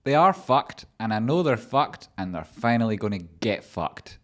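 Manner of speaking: a high, loud gloating cackle of a quote that settles by the end; gloating triumph. Retold or imitated. Trader watching rivals fail, gloating high and loud. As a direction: crow with glee that they're finally caught out. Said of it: "you're like".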